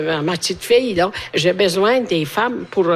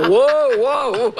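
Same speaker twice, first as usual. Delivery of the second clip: imitated babble; 3 semitones higher than usual. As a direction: mimic talk you cannot understand. Mimics speech she didn't understand.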